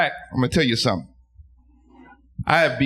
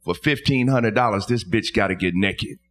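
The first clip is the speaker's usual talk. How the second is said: low parrot voice; 4 semitones lower than usual. Retold or imitated. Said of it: "The male parrot talked to me and he said".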